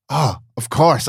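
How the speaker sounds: slow high dawning realization. Retold or imitated. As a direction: let it dawn on you slowly. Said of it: "And I was like".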